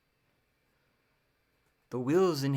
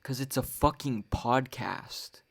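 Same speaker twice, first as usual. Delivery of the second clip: louder, exasperated comeback; retorting to complainers; 5 dB louder than usual. Retold or imitated. Podcaster retelling his reply to complaining friends, louder and exasperated. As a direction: fire it back at them, fed up. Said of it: "And I'm like".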